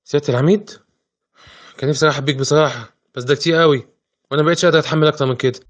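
nervous, pleading voice rushing at the end; scared host begging to be left alone; frightened man. Acted. Frightened man greets the brigadier.

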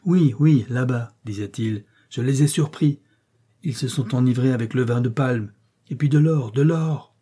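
emphatic telling. Acted. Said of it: "appuyait chacun des mots".

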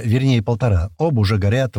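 ordinary delivery, nothing marked

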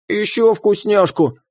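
high, slow, greedy critter; greedy creature voice. Acted. Greedy pet demands more.

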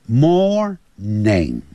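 Morning with the final ning stressed and clear; careful ending. Shown as a demonstration. Teacher drilling the ending of Morning. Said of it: "Morning就是早上的意思".

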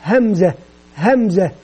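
همزة said slowly and clearly, falling at the end each time; slow letter drill. Shown as a demonstration. Teacher modelling the letter name for children to repeat, slow falling. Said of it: "يقدم صوت الحرف واسم الحرف".

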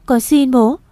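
high, pleading daughter's voice; desperate plea. A narrator's reading. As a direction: beg briefly and urgently. Daughter begs her angry father.

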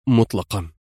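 a weary, final no; sighing denial. Acted. Rescuer answers her with a low, resigned sigh. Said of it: "تنهد وهز رأسه مجيبا".

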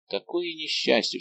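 anguished cry. A narrator's reading. Fouquet learns his friends were moved, despairing cry. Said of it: "вскричал Фуке, хватаясь за голову".

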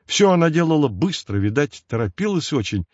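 ordinary delivery, nothing marked

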